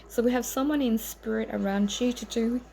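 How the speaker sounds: talking through hiccups; hiccuping mid-sentence. Real, not acted. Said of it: "I'm hiccuping".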